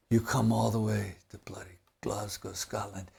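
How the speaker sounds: hushed, imitated Scottish disbelief; thick Scottish accent. Scotsman challenging the bassist's Irish whiskey order, thick Scottish accent. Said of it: "in this really thick Scottish accent".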